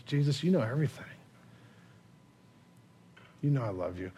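broken. Acted. Peter answering Jesus the final time, quietly broken. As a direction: plead quietly, pausing long before the last words. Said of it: "imagine the brokenness of Peter".

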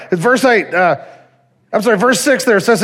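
usual speaking voice

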